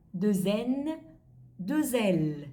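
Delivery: "deux N, deux L" each linked with z; French liaison. Shown as a demonstration. Teacher recapping double letters, "deux N, deux L" with z liaison. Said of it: "Nhớ là có việc nối âm".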